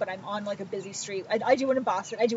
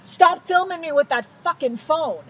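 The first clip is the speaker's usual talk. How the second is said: mock yell, slow and raised in pitch; slowed, higher, mildly hammed-up yell; imitated yelling; 5 semitones higher, slower than usual. Retelling a stranger yelling at her in the street, mock yell. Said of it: "she's yelling at me".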